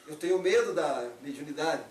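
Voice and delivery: "medo" stated firmly, falling before the turn; excuse placed first. Shown as a demonstration. Showing disciples the reordered fear, firm lead-up to MAS. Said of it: "mudar essa entonação do mas".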